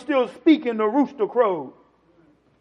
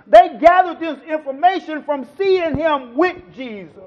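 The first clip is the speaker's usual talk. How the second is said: loud, raised sermon delivery; full-force preaching; 5 semitones higher, 11 dB louder than usual. Real, not acted. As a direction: preach it out hard to the congregation.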